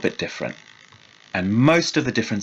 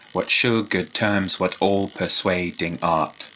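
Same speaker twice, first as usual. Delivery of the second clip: slow, tapping each syllable of "all-persuading"; counting syllables; 3 semitones lower than usual. Shown as a demonstration. Teacher tapping out syllables for students, slow. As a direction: measure out the line beat by beat. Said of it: "Tap it out on your fingers".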